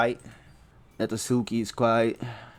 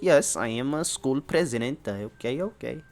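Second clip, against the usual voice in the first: nerd voice. Shown as a demonstration. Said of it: "a nerd voice".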